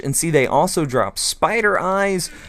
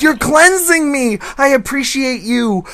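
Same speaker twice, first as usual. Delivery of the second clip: grateful villager voice; 11 semitones higher, 3 dB louder than usual. Retold or imitated. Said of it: "He's like".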